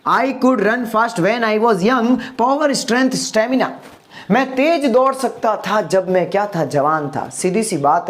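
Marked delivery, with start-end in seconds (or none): 0.1-2.2 slow, careful English sentence; slow model sentence. Shown as a demonstration. Teacher models the English sentence slowly for students. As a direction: say each word slowly for the class to copy. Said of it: "next पे आते हैं".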